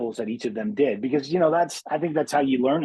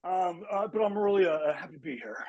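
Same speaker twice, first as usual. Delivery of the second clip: halting actor impression, sinking softer; Nick Cage; 5 dB quieter than usual. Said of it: "your Nick Cage impression is probably the best".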